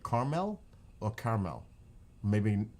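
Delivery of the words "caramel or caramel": first "Caramel" as CAR-mel, then "caramel" contrasted with it; two caramel pronunciations. Shown as a demonstration. Asking viewers how they say it, "caramel" two ways. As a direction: set two ways of saying "caramel" against each other. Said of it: "How would you say it?".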